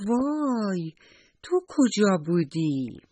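startled cry, then a slow question; startled little mouse. Acted. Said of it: "جیغ کشید". (با تعجب و ترس کودکانه)

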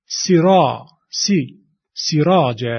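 سرا, سی, سراج broken up slowly with a short i; syllable by syllable. Shown as a demonstration. Teacher breaking سراج into syllables. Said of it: "کسره و یاء مدی".

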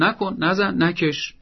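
firm parental don'ts; firm and decisive. Shown as a demonstration. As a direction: give brief orders without lecturing. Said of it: "لحنی محکم و قاطع".

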